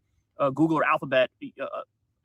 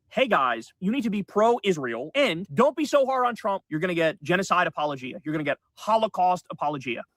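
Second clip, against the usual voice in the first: mocking billionaire. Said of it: "Zionist billionaire wants to make sure".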